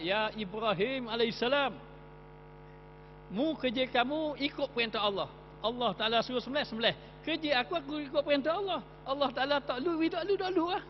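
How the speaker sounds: high, pleading knife voice; talking knife. Acted. Knife answering Ibrahim that it only obeys Allah, high and pleading.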